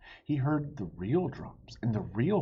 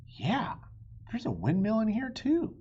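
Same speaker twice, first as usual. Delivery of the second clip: eager Jack; 11 semitones higher, 4 dB louder than usual. Acted.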